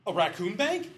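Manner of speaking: loud, high disbelieving question; can't believe the idea; incredulous. Retold or imitated. Bank guy hears the raccoon idea, loud disbelief. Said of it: "the bank guy goes".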